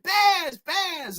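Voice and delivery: half-hearted repeat of the famous shout; quoting the yell. Retold or imitated. Reviewer repeats the famous line, fading. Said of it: "that fucking stupid line".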